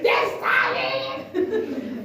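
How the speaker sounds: high-pitched mock congregation cheer; excited cheering. Church members excited about Sister Zion, high cheering. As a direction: cry it out, thrilled for Sister Zion.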